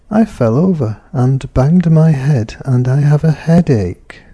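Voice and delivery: statement falling to close on "headache". Shown as a demonstration. Teacher voicing the son's statement, falling finish. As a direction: let the sentence settle downward at the end. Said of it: "Falling tone".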